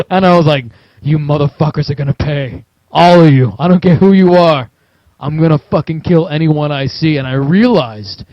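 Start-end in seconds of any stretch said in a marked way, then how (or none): 1.0-7.2 vengeful rant. Retold or imitated. Newly armed player vowing revenge on everyone, heated threat. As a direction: punch it out like a man who has snapped. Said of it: "felt like Michael Douglas from Falling Down".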